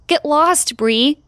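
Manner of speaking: fed-up big sister shouting; snapping at sister. Acted. Pushing sister out the door.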